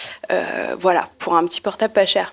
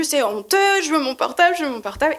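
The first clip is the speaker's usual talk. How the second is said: retold shouting; 6 semitones higher than usual. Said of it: "donc je continue".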